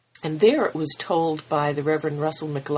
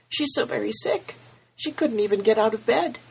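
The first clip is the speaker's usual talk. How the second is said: close to tears; 7 semitones higher than usual. Acted. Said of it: "big tears welling up".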